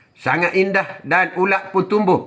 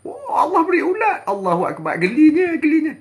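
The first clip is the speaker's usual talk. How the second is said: mock disgust; 9 semitones higher than usual. Disgust at caterpillar.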